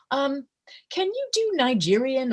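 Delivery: high, offhand ask; imitated casual request. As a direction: lightly voice someone springing an odd request. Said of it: "they just out of left field say".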